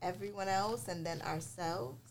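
chewing while talking; mouth full. Real, not acted. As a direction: talk through a mouthful. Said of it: "What, are you chewing?".

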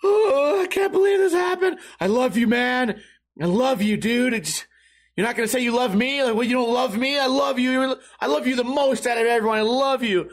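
high-pitched mock weepy pleading; hammed-up drunken heartbreak, pitched high; upset drunk friend. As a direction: imitate a tearful, clingy drunk. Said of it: "really upset about Patrick".

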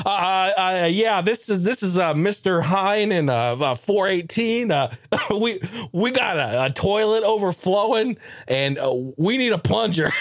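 hurried, flustered plea to the front office; dad phoning the front desk in a fluster; flustered dad on the phone. Retold or imitated. Dad calling the front office in panic.

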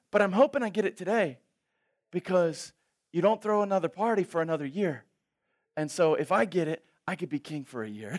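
quick, eager rush; hopeful excited friend. Retold or imitated. Friend hoping to become king. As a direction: rush it with hope.

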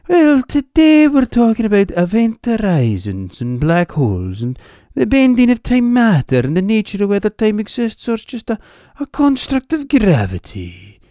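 put-on Brian Cox's lecture voice in a broad, high, loud Hebridean accent. Mocking Brian Cox explaining black holes, in a Hebridean accent. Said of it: "would sound a wee bit daft if he talked with a Hebridean accent".

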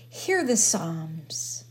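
ordinary delivery

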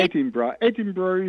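Edinburgh said ED-in-bruh; short E in Edinburgh, ending bruh; corrected pronunciation. Shown as a demonstration. British caller teaching radio host, Edinburgh as ED-in-bruh. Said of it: "I had to correct you".

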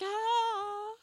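high, drawn-out "ah"; soft, high cry of dismay; high mock wail. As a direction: mimic a horrified little wail. Imitating their reaction to a video.

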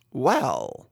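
dry, deadpan Jack Benny "well"; a long-suffering, unimpressed pause-word; low, drawn-out mock exasperation; Jack Benny impression. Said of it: "that's my Jack Benny impression".

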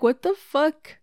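high and loud what the fuck; retold jolt of amazement; stunned again by another gift; shocked. Reacting to 200 more subs.

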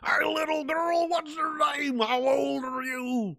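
creepy character voice. Pretend. Voicing the creepy comedy character.

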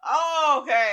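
loud, high laughing words. Real, not acted. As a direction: laugh through it. Laughing at the falsetto.

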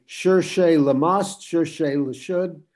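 put-on amateur French accent on a quoted motto; poor French accent. Therapist quoting Albert Ellis's motto to colleagues, poor French accent. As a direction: quote it in rough, slowed French. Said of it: "excuse my poor French accent".

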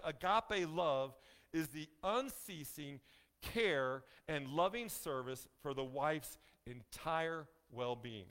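slow reading. Shown as a demonstration. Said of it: "Let me say that again".

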